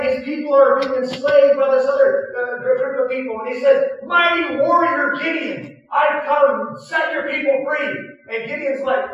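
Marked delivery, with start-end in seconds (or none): 4.0-8.2 booming call. Retold or imitated. Pastor voicing God summoning Gideon, booming call. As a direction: call him out like a herald.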